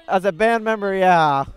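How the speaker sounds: talking through a mouthful of food; words muffled round a bite; mouth full. Real, not acted. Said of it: "Don't talk with your mouth full".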